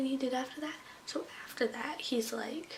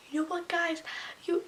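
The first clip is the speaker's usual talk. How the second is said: put-on higher voice with a light Hispanic accent; imitated Hispanic accent; 6 semitones higher than usual. Substitute scolding the class, imitated Hispanic accent. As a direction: mimic a teacher with a Hispanic accent. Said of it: "she had an Hispanic accent".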